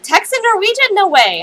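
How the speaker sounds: mimicked disbelief, very high question dropping on the last words; surprised. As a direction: imitate his loud, high-pitched amazement. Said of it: "He was really surprised".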